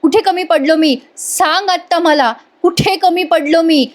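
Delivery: a hint of sobbing husband pleading; retold tearful plea. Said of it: "तो रडून म्हणत असतो".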